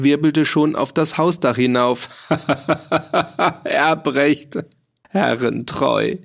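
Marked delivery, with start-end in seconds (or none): 2.3-3.6 high, unhinged laughter; wild laugh. A narrator's reading. Farmer laughs madly after setting the fire. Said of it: "den Lachenden". 3.6-6.2 words through laughter, last one slow; laughing bitterly. A narrator's reading. Farmer laughs out his bitter motto, slowing at the end. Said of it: "den Lachenden".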